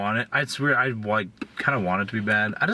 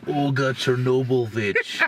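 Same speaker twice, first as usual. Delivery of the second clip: put-on Russian accent. Playing a Russian character.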